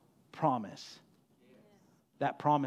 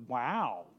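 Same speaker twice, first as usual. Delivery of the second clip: Sesame Street aliens. Retold or imitated. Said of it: "the animals from the old Sesame Street".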